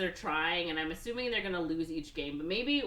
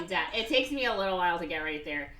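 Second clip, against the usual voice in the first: put-on Minnesota accent; 12 dB louder than usual. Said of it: "That's my Minnesota".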